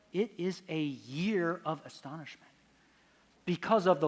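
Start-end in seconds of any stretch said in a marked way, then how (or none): 0.1-2.5 much softer, deliberate reading; hushed repeat. Shown as a demonstration. Lecturer repeating the inscription after "You catch that?", hushed and deliberate. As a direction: drop the volume and let the line sink in.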